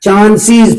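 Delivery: चांसेस said "chaan-seez"; चांसेस with a clear -seez ending; correct plural pronunciation. Shown as a demonstration. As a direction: end चांसेस in a long ee. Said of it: "चांसेस नहीं बोलना".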